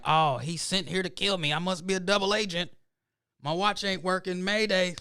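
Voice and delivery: high-pitched hammed-up spy panic; mock panic. Movie-fed imagination reacting to Russian accent, mock panic. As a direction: play a doomed agent calling for help, pitch climbing.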